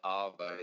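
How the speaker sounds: "Arvo" said ar-vo, the r barely sounded; Aussie "Arvo" stressed on ar; Aussie slang arvo. Shown as a demonstration. Friend giving an example of Aussie slang, saying arvo. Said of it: "they say".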